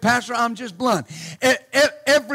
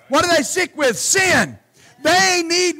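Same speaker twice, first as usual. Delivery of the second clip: preaching shout; 5 semitones higher, 3 dB louder than usual. Real, not acted. Preaching at full force.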